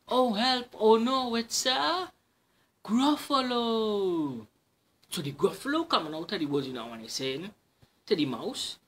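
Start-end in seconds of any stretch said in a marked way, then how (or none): 0.1-4.5 high, loud mock panic; mock fright. Mouse spots the Gruffalo. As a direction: gasp in pretend terror.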